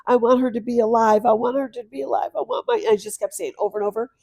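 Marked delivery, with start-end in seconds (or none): 0.0-2.8 mock wailing plea, pitch climbing at the end; retold crying. Mother retells crying for her late daughter, imitated pleading. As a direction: repeat it insistently, rising as if crying. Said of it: "I just started crying and crying".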